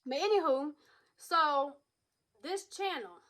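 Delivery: talking while chewing gum. Real, not acted. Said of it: "to have gum in your mouth".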